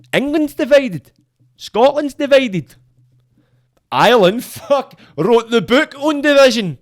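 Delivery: loud, high-pitched indignation; emphatic rant. Real, not acted. Emphatic rant listing divided nations.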